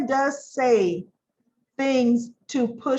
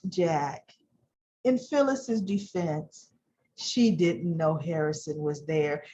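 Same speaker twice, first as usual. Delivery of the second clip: lower, softer, syrupy; sugary fake defense; sweet Diane; 7 semitones lower, 4 dB quieter, slower than usual. Diane smoothly defending Phyllis to Jack, low and soft. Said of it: "Diane's like".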